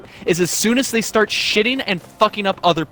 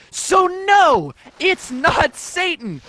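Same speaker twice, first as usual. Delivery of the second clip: scornful put-down; 7 semitones higher, slower than usual. Real, not acted. Scornful rebuttal.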